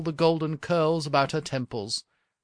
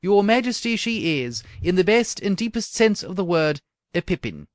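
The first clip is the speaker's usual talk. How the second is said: put-on enthusiastic old courtier; 4 semitones higher, 5 dB louder than usual. Chamberlain praises princess.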